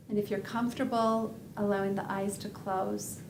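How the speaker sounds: unhurried body scan guidance with long pauses; calm, measured meditation guide; guided meditation. Acted. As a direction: lead them gently through a body scan, leaving space between phrases.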